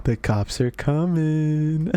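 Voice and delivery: drawn out, slow and teasing; slow taunting warning. Retold or imitated. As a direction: stretch every word teasingly. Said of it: "It was just so funny".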